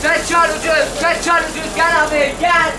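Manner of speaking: high, loud market cry; street vendor shout. Real, not acted. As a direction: call out to passing shoppers. Market vendor calling customers.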